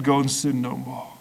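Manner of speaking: soft and simple, a quiet command; simple and gentle. A narrator's reading. Jesus to the forgiven woman, simply and softly. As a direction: hand down the words softly, without force. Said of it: "simply said".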